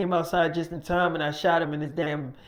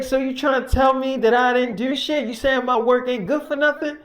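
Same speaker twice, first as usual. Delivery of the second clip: indignant challenge; 5 semitones higher, 4 dB louder than usual. Retold or imitated. Worker challenging Mike.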